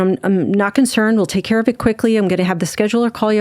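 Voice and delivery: rattled off fast and casual; quick and breezy. Retold or imitated. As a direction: brush it off, fast and light. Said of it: "And she said it so quickly".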